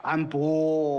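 drawn-out refusal in Henan dialect; Henan-accented dragon. Acted. Dragon refusing the father, in Henan accent. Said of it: "这龙怎么也这口音呢".

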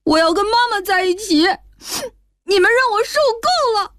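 put-on high tearful boy, rushing the last line; a boy sobbing out an ultimatum to his father; crying child. A narrator's reading. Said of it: "边哭边说".

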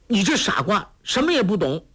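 high, sharp scolding outburst; angry retort. A narrator's reading. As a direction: scold him, fed up. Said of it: "黄蓉怒道".

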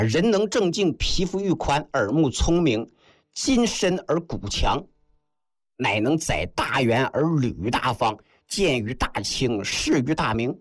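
deliberate recital of an ancient passage; classical recitation. Acted. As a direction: recite the old text in marked, separate phrases. (抑扬顿挫地诵读古文)

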